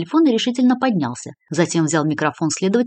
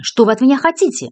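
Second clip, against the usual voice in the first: shouting; 7 semitones higher, 4 dB louder than usual. A narrator's reading. Cornered woman crying out.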